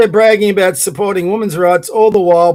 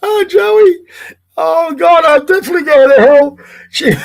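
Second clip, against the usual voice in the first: helpless laughter; 8 semitones higher than usual. Real, not acted. Reacting to a follower's rude post, laughing hard. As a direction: lose it completely.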